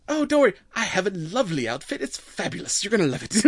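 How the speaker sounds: put-on Valley Girl accent. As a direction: gush about the outfit, Valley Girl. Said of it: "almost Valley Girl accent".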